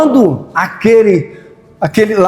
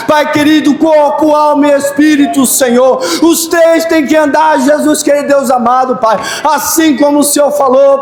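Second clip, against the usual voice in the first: preaching prayer at full force; 5 semitones higher than usual. Acted. Pastor crying out to God for the congregation, fervent shouted prayer. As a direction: cry out to God with rising force.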